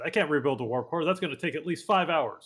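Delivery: put-on light Scottish accent, engineer voice; a hint of a Scottish brogue. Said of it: "he'd say it more in a Scottish accent".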